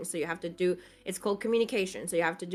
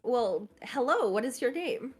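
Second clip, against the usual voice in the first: therapist voice. Shown as a demonstration. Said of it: "How would that usually start?".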